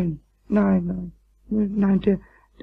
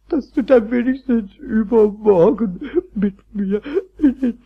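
tearful pleading; slower than usual. Acted. Kobold pleads with Meister Eder, tearful and halting. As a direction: sob the words out, dragging them. Pumuckl begs, tears over lost zoo trip.

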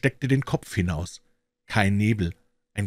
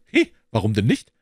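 put-on louder, cheeky boy's retort; Jungenstimme; 5 dB louder than usual. A narrator's reading. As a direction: answer like a boy calling up to a window. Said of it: "antwortete der Junge". (laute Knabenstimme, zurückgerufen)

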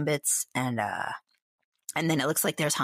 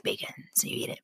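whisper; 5 dB quieter, faster than usual. Pretend. Confiding love of bacon.

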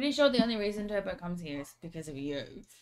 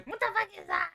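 mock baffled; 10 semitones higher, faster than usual. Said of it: "People go".

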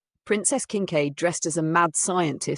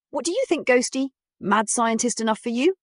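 high, playful mad scientist; 8 semitones higher, 3 dB louder than usual. Acted. Mad scientist wife character voice.

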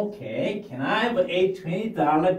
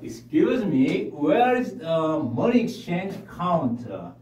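slow, careful English model sentence; teacher reading a phrase slowly; much slower than usual. Shown as a demonstration. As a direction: read it out slowly for learners to copy. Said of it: "먼저 제가 한번 읽고".

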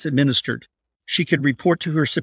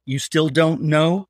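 slow, offended question; mild insulted anger; 2 semitones higher, slower than usual. Acted. Abductor to Patricia, slow and offended. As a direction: drag it out like you've been insulted. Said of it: "with an anger resembling".

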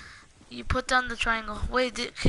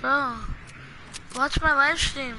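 excited; 3 semitones higher, 4 dB louder than usual. Real, not acted. Urging friend to look.

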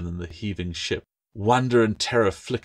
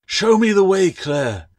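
much higher, louder commanding cry; loud demand; 12 semitones higher, 9 dB louder than usual. A narrator's reading. Bound man demanding Claire show the way, shouting. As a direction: demand it over the storm. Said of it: "he demanded".

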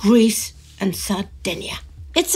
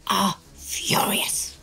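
serious newsreel narrator voice; dramatic narration. Acted. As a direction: read it like a wartime newsreel.

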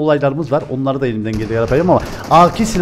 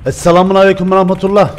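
put-on Arabic accent; 5 semitones higher, 4 dB louder than usual. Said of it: "Arap taklidi yapayım mı?".

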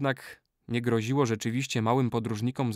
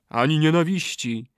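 higher, emphatic echo; ritual response; 5 semitones higher, 4 dB louder than usual. A narrator's reading. Brothers echo the oath back, emphatic response. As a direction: repeat the vow with a falling close.

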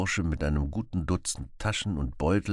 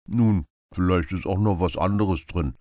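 knowing beggar; 5 dB louder than usual. Acted. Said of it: "grinste vielsagend".

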